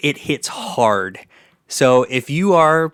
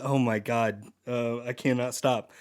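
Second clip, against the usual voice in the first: ordinary delivery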